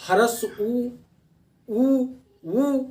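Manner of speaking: उ sounded high with rounded lips; demo of उ. Shown as a demonstration. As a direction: push the lips forward and sing out उ. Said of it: "उच्चारण करके देख लीजिएगा". (होंठ आगे करके ऊँचा उ)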